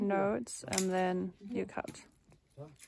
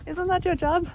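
loud high playful urging; teasing the dog; 8 semitones higher, 6 dB louder than usual. Real, not acted. Owner teasing her dog to chase another dog, loud and high. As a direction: egg the dog on, pitched up.

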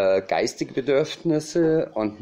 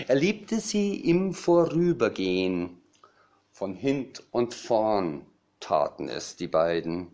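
parody poem recital; 2 semitones lower than usual. Acted. Cabaret poet retelling raven and little rose, parody poem recital. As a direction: play the mock-classical verse for comedy.

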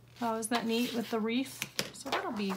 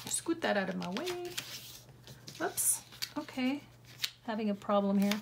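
straining grunts while working; effort grunt. Real, not acted. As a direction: grunt with effort through the words. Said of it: "I keep grunting".

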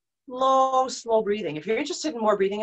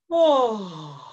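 yawning oh; 4 dB louder than usual. Shown as a demonstration. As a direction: open yawn on oh. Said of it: "You can even do a yawn".

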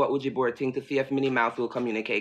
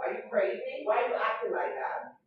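alarmed scolding; 9 semitones higher than usual. Real, not acted. Scolding the dog near candle.

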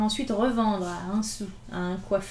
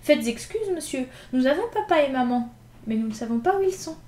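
put-on lightly higher, polite little boy; small boy; 3 semitones higher, 4 dB louder than usual. Elder boy explaining about their parents, small voice. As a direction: answer timidly and politely.

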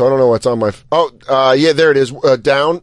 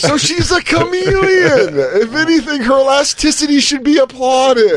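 mock earnest praise; 11 semitones higher than usual. Mocking the model to friends, high fake gushing. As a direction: gush it like a fake eulogy.

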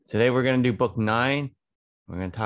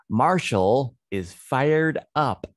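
excited reading; 3 semitones higher, 3 dB louder than usual. Shown as a demonstration. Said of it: "One more time".

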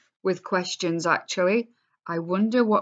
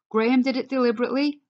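higher, fast, shocked question; shocked disbelief; 6 semitones higher, much faster than usual. Acted. Eric hears Graham did it on purpose, shocked. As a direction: rush out the disbelief.

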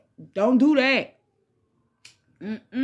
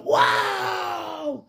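surprised; 6 semitones higher than usual. Retold or imitated. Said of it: "I said".

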